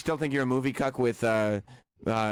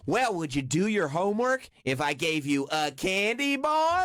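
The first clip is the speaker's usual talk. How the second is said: slow, sweet teacher voice rising at the end; lightly hammed-up teacher bribing students with candy; mock teacher; 4 semitones higher, slower than usual. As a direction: coax the class like a naive teacher. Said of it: "Michelle Pfeiffer's going".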